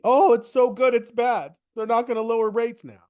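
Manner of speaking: high, loud mocking voice; mock panic. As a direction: imitate a nervous market. Mock market reaction quote.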